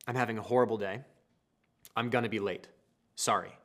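low, soft, subdued apology; calm apology. Acted. Husband texting wife he'll be late, calm apology. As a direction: confide it gently and wearily.

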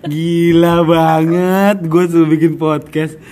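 laughing. Real, not acted. Recalling being told to podcast.

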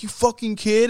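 a hammed-up scolding bark; mock yell. Brody screaming in his face, mock angry. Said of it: "he's just screaming at him".

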